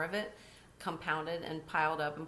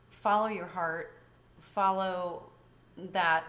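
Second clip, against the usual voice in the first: earnest urging; 7 dB louder, slower than usual. Real, not acted. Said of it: "motivational urging".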